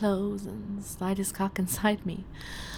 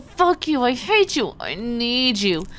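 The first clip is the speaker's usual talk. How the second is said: mock shouting; 4 dB louder, slower than usual. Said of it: "he was just shouting".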